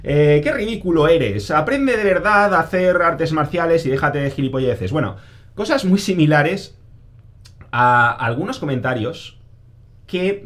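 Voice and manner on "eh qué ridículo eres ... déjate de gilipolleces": a louder, sneering mock troll; lightly voiced scornful commenter; mocking critic. Quoting a Facebook troll who mocks the yells, sneering and louder. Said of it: "habrían empezado".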